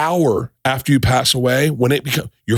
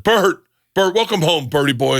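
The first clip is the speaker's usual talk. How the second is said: higher-pitched bellman hailing a regular; mock delighted welcome; imitated hearty greeting; 5 semitones higher than usual. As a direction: greet him like a returning favorite.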